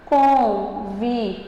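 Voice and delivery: "Convidar" silabado devagar, com força no "da"; sílaba tônica destacada. Shown as a demonstration. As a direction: separe "Convidar" em con-vi-DA, com pausas. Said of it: "Você viu que o da, ele ficou mais forte". ("Convidar" pausado, "da" mais forte)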